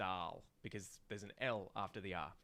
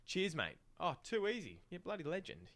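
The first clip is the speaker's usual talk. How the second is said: chirpy Aussie bloke; 8 semitones higher than usual. Shown as a demonstration. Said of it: "string all of these together".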